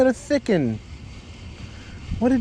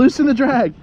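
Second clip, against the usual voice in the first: loud; 7 semitones higher, 6 dB louder than usual. Real, not acted. Repeated instruction during fight.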